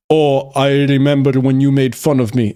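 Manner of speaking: mock Austrian bodybuilder accent; heavy Arnold-like Austrian accent. Streamer voices grown-up kid confronting his bullies, Austrian accent. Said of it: "why he developed an Austrian accent".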